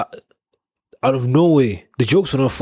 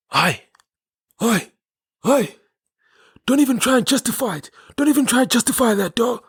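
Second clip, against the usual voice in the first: very high falsetto mimicry; imitating taxi-rank guy; 13 semitones higher than usual. Retelling a well-dressed guy at the taxi rank arguing, high-pitched imitation. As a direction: squeak it out as a mock scolding. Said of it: "say it exactly how he said it".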